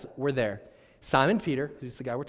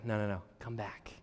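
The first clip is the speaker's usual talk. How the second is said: pleading Jesus. Retold or imitated. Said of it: "Jesus is saying".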